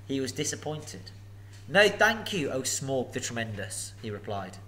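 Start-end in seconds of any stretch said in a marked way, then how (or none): 1.7-3.9 lightly raised, politely flattering hobbit; a hint of nervous courtesy. Bilbo answers the dragon.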